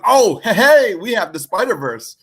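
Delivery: mock bragging company voice; boastful studio. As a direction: act out a mildly showy brag. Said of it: "like, Sony going".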